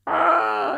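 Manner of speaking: high imitated "ah"; short high playful yelp; mock squeal. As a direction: imitate a tickled woman's squeal. Imitates date's cry after pinch.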